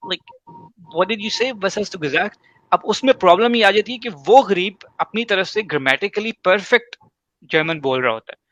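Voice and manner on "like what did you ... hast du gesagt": a puzzled native German asking them to repeat; a confused native asking wie bitte. Retold or imitated. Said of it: "وہ German کہے گا". (الجھا ہوا German)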